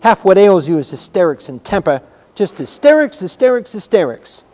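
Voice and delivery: loud, high angry scolding; shouted. A narrator's reading. Girl stamps as she scolds the boy, shouting. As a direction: hammer it home with stamping force. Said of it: "shouted Mary".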